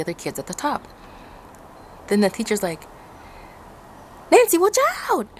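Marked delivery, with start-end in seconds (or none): 4.3-5.3 high, loud shouted warning; teacher shouting. Retold or imitated. Teacher calling down the slope, shouting a warning.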